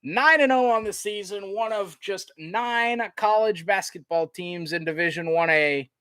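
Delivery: big sportscaster sign-off at the buzzer; excited play-by-play. Real, not acted. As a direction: announce the victory to the whole arena. Calls the final seconds of win.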